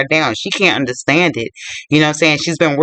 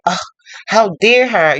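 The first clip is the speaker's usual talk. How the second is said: mildly indignant retold outburst, a little higher; upset Minnie; 4 semitones higher than usual. Cook reacting to being refused work, mildly upset. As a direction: act out mild indignation. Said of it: "Minnie gets upset".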